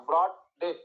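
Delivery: ব্রড and ডেথ apart, jaw dropped on each; stress on both words. Shown as a demonstration. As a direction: give ব্রড and ডেথ each a heavy beat. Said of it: "ওটা নিচে নামছে কিনা".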